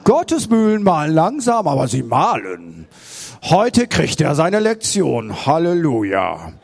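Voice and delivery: hammed-up pious onlookers in the boat; smug onlookers. The others in the boat watch Peter climb out, mock-pious gloating. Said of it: "ich sehe so die anderen im Boot und sag".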